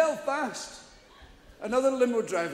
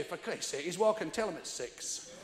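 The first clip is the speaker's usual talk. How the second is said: exasperated wife; 3 semitones lower, 8 dB quieter than usual. Retold or imitated. Wife scolding farmer.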